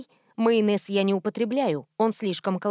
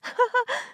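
high-pitched burst of laughter; high giggle; 13 semitones higher than usual. Acted. Prankster laughing after his fake woman voice, high giggle.

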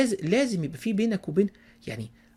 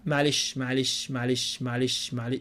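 mechanical repetition; 5 semitones lower, 5 dB quieter, slower than usual. Shown as a demonstration. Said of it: "يعني لا مش كده".

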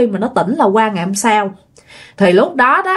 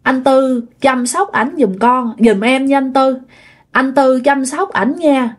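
retold farewell plea; 2 semitones higher than usual. Departing spirit entrusting lover to older brother, retold farewell plea. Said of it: "Nó nói rằng".

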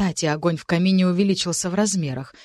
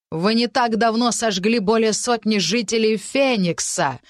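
raised voice; 3 semitones higher, 3 dB louder than usual. Acted. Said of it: "Маркиз повысил голос".

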